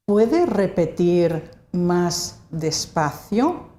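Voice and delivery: "Puede repetir más despacio" slowly, in separated chunks; slow model phrase. Shown as a demonstration. Teacher repeats phrase for learners.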